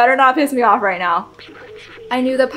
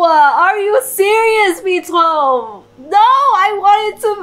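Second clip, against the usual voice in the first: high, loud, slow tearful plea; crying protest; 7 semitones higher, 5 dB louder, much slower than usual. Real, not acted. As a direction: beg through real tears. Crying over companion's sacrifice.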